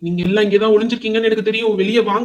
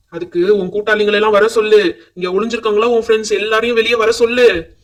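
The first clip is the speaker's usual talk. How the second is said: loud, forceful demand; menacing ghost laying down an ultimatum; threatening order; 6 dB louder than usual. Acted. Possessing ghost orders friends out.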